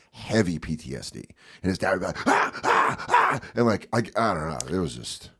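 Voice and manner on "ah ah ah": imitated hoarse cries of panic; short mock cries of alarm; panicked gasps. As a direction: gasp out startled little yells. Imitating dad's PTSD panic.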